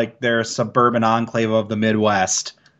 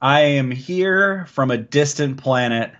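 slow, even alien drawl; slower than usual. Pretend. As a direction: speak slowly like a visiting alien. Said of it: "thanks for joining us from your, uh, from your alien planet".

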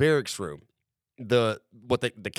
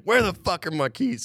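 deadpan insistence; 6 semitones higher than usual. Retold or imitated. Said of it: "I don't lose composure".

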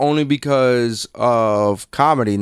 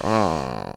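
low, soft groan of disgust; re-enacted cringe; mock shuddering groan; 9 semitones lower, 6 dB quieter than usual. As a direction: groan quietly as if cringing at your own recording. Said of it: "I used to shudder all the time".

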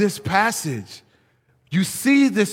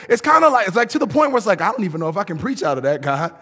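mock preacher; 3 semitones higher, 3 dB louder, much faster than usual. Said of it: "heard people preach".

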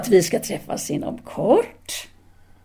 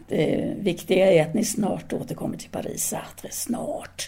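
a secret, pleading hush; intimate whisper; 2 semitones lower, 6 dB quieter than usual. Acted. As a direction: whisper it close, much softer. Urging her to return soon. (intim viskning, mycket tystare)

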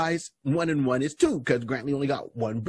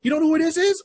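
much higher, louder teasing question; teasing cousin; 5 dB louder, faster than usual. Retold or imitated. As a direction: tease him, high and loud. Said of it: "He's like".

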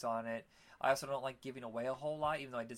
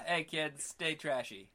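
host sign-off; 2 semitones higher, slower than usual. Acted. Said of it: "I'll do it".

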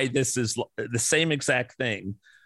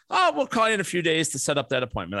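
mock flippant receptionist; 5 semitones higher, faster than usual.

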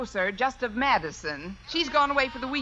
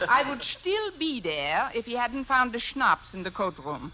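put-on German accent. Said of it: "If I can do a decent German accent".

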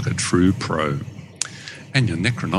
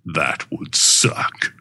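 very slow, drawn-out delivery; slow, deliberate borrowed punchline; Voltandra's catchphrase; 4 semitones lower, much slower than usual. Retold or imitated. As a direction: stretch each word out for effect. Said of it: "borrow a line from my friend Voltandra's audios".

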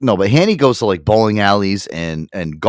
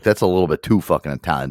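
normal talking voice

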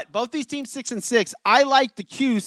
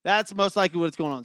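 breathing heavy after running around; winded from fixing the router; faster than usual. Real, not acted. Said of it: "Sorry, I'm breathing heavy".

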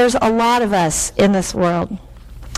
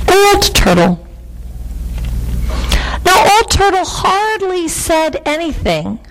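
lilting storyteller, lifting for the reveal; story narration; 6 semitones higher than usual. A narrator's reading. Reader revealing Old Turtle's voice, wondering storytelling. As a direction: draw out the wonder of it. Reads a picture book aloud.

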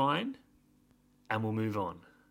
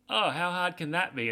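high, breezy and naive, a touch hammed-up; mock breezy overconfidence; 7 semitones higher than usual. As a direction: toss it off like it's nothing, half-mocking. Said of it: "And she's like".

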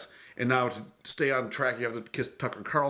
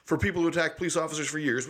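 mocking Ted Cruz; 4 semitones higher, faster than usual. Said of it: "typical Ted Cruz tap dance nonsense".

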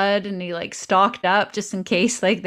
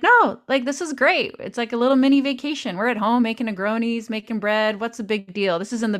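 blithe protest; 3 semitones higher, faster than usual. Retold or imitated. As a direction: brush off his worry, playfully acted. Acting her side of argument.

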